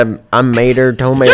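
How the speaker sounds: exaggerated southern cartoon twang; goofy southern character voice; Mater. Shown as a demonstration. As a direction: ham up the country accent. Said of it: "you can do Mater".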